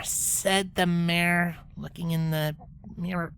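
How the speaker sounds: slow, low, stumbling reading; slow halting reading. Acted. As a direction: struggle through the words. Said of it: "sullenly speaking".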